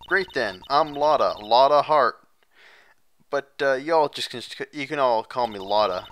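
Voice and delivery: lightly drawled country gal; friendly Southern woman. Acted.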